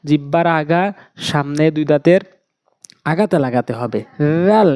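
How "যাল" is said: "রাল" starting with a soft voiced th; tongue tip on front teeth, buzz "রাল" gently; very soft dhal. Shown as a demonstration. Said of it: "একদম নরম করে".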